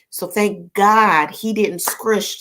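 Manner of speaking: ordinary delivery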